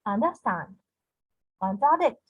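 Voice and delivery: "understand", "contradict" leaning on STAND and DICT; two light syllables, then a strong last one in "understand, contradict"; stress on last syllable. Shown as a demonstration. Teacher giving anapestic examples, last syllable stressed. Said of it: "two unstressed syllables followed by a stressed".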